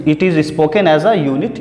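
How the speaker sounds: slow, careful reading of the definition. Shown as a demonstration. Teacher rereading the definition slowly. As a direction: read it out slowly for the notes. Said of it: "vowel हमारा क्या होता है".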